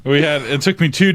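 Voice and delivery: put-on high, cracked old-timer voice laughing through it; old man voice. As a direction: play a creaky grandpa reminiscing. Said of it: "put on my old man voice".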